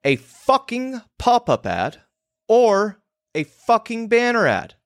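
emphatic all caps. Retold or imitated. Newsletter copy read out, pitched high as if shouted. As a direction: yell the swear-laden ad line. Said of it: "never all caps".

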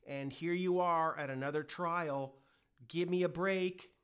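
God scolding his ungrateful people; voicing an exasperated God. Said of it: "He's like".

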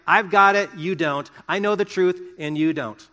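loud, smug and judgmental, then settling; smug know-it-all. Retold or imitated. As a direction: lord it over them. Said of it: "saying, like".

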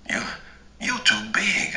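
nervous stammer, pitch jumping high. A narrator's reading. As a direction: stumble over the first word. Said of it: "I stammered".

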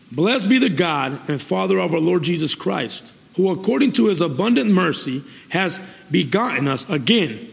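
deliberate preacher reading from the Bible; scripture reading. Real, not acted. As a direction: read the verse out solemnly to a congregation. Reads scripture aloud to congregation.

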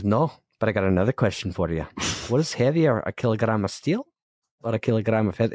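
lightly imitated Scottish teacher; a hint of mock Scottish; Scottish accent. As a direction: quote the riddle with a Scottish lilt. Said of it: "You do a pretty good act".

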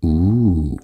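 a mock classroom "uuh" in an odd voice; lightly voiced schoolkids jeering. A narrator's reading. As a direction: tease him like a whole class. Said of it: "der skreg".

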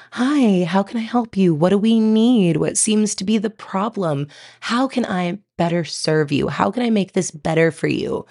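lightly voiced soothing spa attendant; a hint of a gentle spa receptionist. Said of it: "using your spa attendant voice".

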